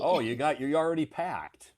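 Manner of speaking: high, loud burst of surprise; surprised. Real, not acted. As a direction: react in real surprise to packed luggage. Sees the luggage already packed.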